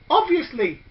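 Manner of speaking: put-on high, ditzy girl's voice; a dim little girl stating the obvious; lightly voiced airhead girl. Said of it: "said the airhead girl".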